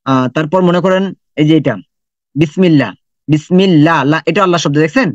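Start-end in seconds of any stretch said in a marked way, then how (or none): 2.3-4.0 বিসমিল্লাহ with a thin clear লা; light la. Shown as a demonstration. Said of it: "কিন্তু এখানে লা হবে".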